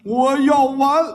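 slow, feeble gasp of a dying man; dying father's words. Retold or imitated. Mimicking the dying father to his son, slow and feeble. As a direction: drag it out like a dying old man. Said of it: "我爸爸要完".

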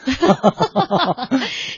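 amused laugh trailing off; hearty laugh. Real, not acted. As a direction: laugh at the joke. Host laughs at co-host's joke.

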